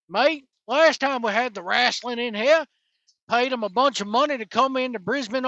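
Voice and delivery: lightly hammed-up, bad Australian accent; horrible Australian accent. Wrestling podcaster mimics disgruntled Brisbane locals, bad Australian accent. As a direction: put on a clumsy mock Australian accent. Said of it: "it's my horrible Australian accent".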